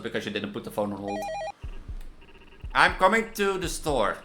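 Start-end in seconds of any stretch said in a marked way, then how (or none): 2.7-4.2 raised, deliberate acted threats; menacing caller dialogue. Angry caller threatens support worker, acted menace. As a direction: act out a tense threatening call.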